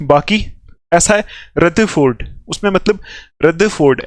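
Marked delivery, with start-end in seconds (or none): 1.6-2.2 "रदरफोर्ड" with the middle r silent, "rudda-ford"; "रदरफोर्ड" with d sound and no middle r; American pronunciation. Shown as a demonstration. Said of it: "आर silent है सिर्फ". 3.4-4.0 "रदरफोर्ड" as "rudda-ford", middle r dropped; r-less American-style "रदरफोर्ड"; silent r. Shown as a demonstration. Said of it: "आर नहीं बोलना लेकिन दा बोलना है".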